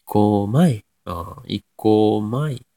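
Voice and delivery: 行こまい drawn out, pitch lifted on the third mora; third mora rises. Shown as a demonstration. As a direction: slowly show the Nagoya rise in 行こまい. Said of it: "三つ目上がりますね". (「行こまい」の三つ目を上げる)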